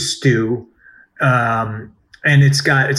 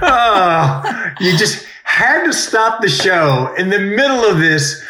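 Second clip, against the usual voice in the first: mock whining; 6 semitones higher, slower than usual. Mock whine at being teased.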